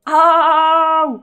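sharp loud cry of pain, pitch up; pained loud ouch. Real, not acted. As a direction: yelp as if it hurt you. Wincing again.

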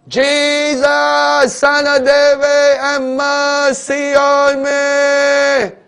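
high, loud, drawn-out wailing plea; desperate cry to Jesus. Acted. Blind beggar crying out to Jesus over the crowd, desperate wail. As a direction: cry out for mercy with everything. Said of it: "He shouted".

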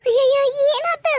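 high, worried wail of dismay; alarmed. Acted. Mother asking her weeping daughter what happened, alarmed. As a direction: exclaim in distress.

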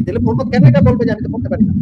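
high, incredulous and pressing; exasperated high question. Real, not acted. Debater presses his opponent, high and incredulous. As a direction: push it up high in disbelief.

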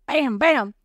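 playful spoken bang-bang; imitated gunshots. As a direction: act out two shots with the words. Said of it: "act like I was shooting a gun".

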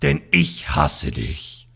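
dark threat. Acted. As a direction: threaten your former friend. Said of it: "rief Darfang da die Klinge".

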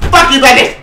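mock-angry shout. Real, not acted. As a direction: yell it at the author, half laughing. Fan raging at the writer.

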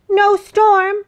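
very high, loud duck report; quacking duck. A narrator's reading. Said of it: "he quacked".

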